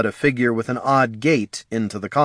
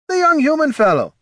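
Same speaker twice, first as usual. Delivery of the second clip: dwarf voice; 5 dB louder than usual. Acted. Dwarven Sven voiced by reader.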